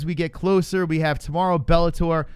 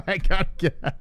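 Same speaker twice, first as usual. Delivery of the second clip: cracking up mid-sentence; laughing; 3 semitones higher than usual. Real, not acted. Host giving up after co-host's accent bit, laughing. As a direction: try to speak through laughter.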